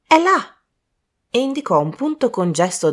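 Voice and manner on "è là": high, breathless exclamation. Acted. Colin pointing at the body, out of breath. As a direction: gasp it out, panting. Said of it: "disse Colin ansante".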